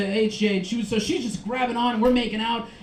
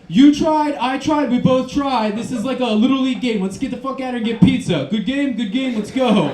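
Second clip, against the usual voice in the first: good-sport brush-off; 3 semitones higher, 5 dB louder than usual. Retold or imitated. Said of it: "the way that I said it was like".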